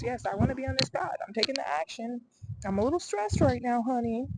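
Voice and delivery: high-pitched, emphatic affirmation; lifted, insistent self-declaration; declaring to universe. Acted. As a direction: call your commitment out to the universe. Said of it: "I wanna communicate to the universe".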